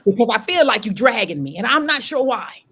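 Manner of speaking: a desperate prayer that loops on the same word; crying out to God. Retold or imitated. Retelling her late-night prayer to God, pleading and anguished. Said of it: "that's when I had that cry to God".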